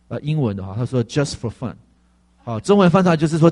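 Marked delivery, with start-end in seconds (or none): 1.0-1.7 low, soft, unhurried; a hushed voice from within; quiet inner voice. Retold or imitated. Inner voice speaking softly to the pastor. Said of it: "里面跟我说".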